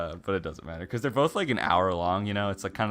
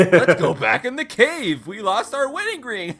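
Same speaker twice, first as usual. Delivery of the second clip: loud, high mock B-movie dialogue; stupid fifties movie characters; 11 semitones higher, 8 dB louder than usual. Friend mocking dumb fifties characters to co-hosts, hammed-up and loud. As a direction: play a clueless movie character, pitched up and laughing. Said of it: "characters in the fifties are incredibly stupid".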